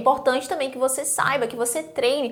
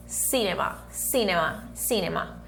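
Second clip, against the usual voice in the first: soft repetition drill; 3 semitones lower, 7 dB quieter than usual. Shown as a demonstration. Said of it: "eu posso falar cinema".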